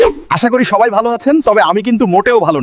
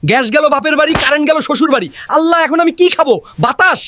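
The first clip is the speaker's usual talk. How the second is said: high-pitched exasperated lament; mild theatrical despair; 7 semitones higher than usual. Acted. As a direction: bemoan it with raised pitch. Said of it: "কপালে হাত দিয়ে হতাশ হয়ে".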